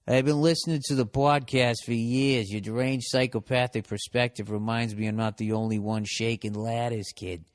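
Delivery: exaggerated Boston accent, sentence running on. Podcast host rereads a listener's letter, Boston accent. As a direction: read it out as a guy from Boston. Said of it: "Is this guy from Boston?".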